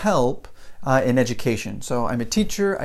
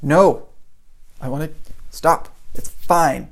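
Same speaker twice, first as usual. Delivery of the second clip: retold stubborn refusal; slower than usual. Kid wanting to be done, mock-defiant. Child refusing mom's check.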